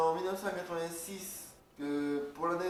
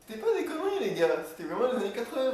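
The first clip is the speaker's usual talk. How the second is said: louder, higher, rushing insistence; emphatic insistence; 5 semitones higher, 6 dB louder, faster than usual. Real, not acted. Insisting to the guys it really was the eighties, emphatic. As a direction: drive it home loudly, voice jumping up.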